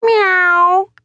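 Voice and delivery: high, drawn-out meow; cat meow. A narrator's reading. The cat Lord Hugh answers Morris, high meow. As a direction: mew like a cat.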